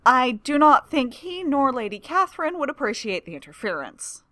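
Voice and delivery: hasty interjection. A narrator's reading. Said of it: "Lawrence interjects hastily".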